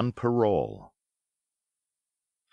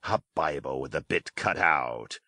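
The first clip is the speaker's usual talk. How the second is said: lower, scornful Silver; a gruff pirate scoffing at the cut Bible; derisive; 6 semitones lower than usual. A narrator's reading. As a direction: sneer it out, mocking. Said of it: "returned Silver derisively".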